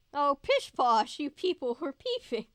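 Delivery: slow, loud, haughty put-on voice. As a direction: drag out pish posh grandly. Reading chat in a voice.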